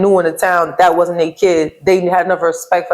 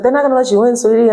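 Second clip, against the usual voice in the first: sweet guard lady; 5 semitones higher than usual. Retold or imitated. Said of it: "She was like".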